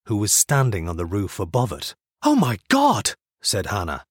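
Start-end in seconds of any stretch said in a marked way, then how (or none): 2.2-3.1 high-pitched startled exclamation; sudden high cry of shock. A narrator's reading. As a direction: gasp it out in alarm. Hannah spots man on roof.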